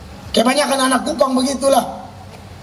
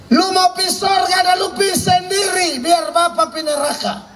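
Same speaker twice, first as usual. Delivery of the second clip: angry father shouting; 5 semitones higher than usual. Retold or imitated. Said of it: "Bab Tuhan omong begitu".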